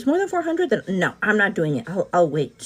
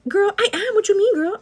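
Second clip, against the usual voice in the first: mock offence; 10 semitones higher, 4 dB louder than usual. Real, not acted. Mock offence at being called tired.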